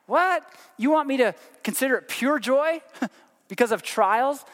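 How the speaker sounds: a sharp high "What?" then an incredulous question; mock disbelief. Preacher voicing a congregant balking at James, mock incredulous. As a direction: play the doubting listener, half laughing.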